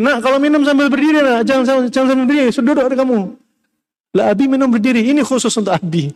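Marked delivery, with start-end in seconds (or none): 0.0-3.2 high-pitched, insistent telling-off; parental scolding. Acted. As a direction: imitate a parent nagging a child to obey. Voices parent correcting a standing child. (menirukan orang tua menegur anak, nada tinggi)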